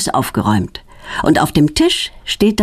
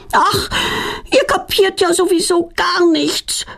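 high-pitched shouted retort; mock yell back; 12 semitones higher than usual. A narrator's reading. Petronella yelling back at her father, high mock shout. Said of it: "brüllt Petronella zurück".

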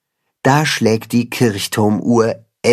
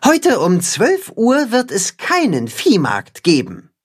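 higher, announcing the news to the farm; Timme announcing; 9 semitones higher than usual. Acted. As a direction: proclaim it like a rooster at the gate. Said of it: "kündigt Timme an".

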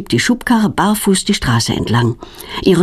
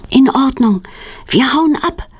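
ordinary delivery

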